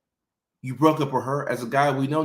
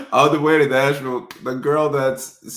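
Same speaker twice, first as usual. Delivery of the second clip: laughing; 3 semitones higher, 5 dB louder than usual. Real, not acted. Laughing, shifted voice.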